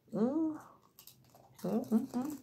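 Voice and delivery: biting into cookie; chewing with hand over mouth; mouth full, chewing. Real, not acted. Seen 2: Biting and chewing cookie at mouth throughout; hand covers mouth later.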